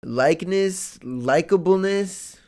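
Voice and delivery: puzzled, testing each form aloud; unsure word search. Real, not acted. Reviewer fumbling for the right word, puzzled. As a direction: try out the word like you doubt it. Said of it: "English, dog".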